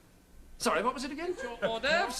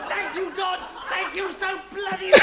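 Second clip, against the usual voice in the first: sarcastic thanks; 2 semitones higher, 5 dB louder than usual. Acted.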